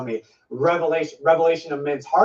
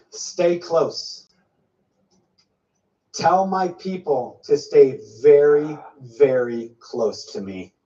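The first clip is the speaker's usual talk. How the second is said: slow, grave reassurance; solemn prophecy; slower than usual. Acted. Preacher voicing the Lord's comforting promise. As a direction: deliver the Lord's promise slowly.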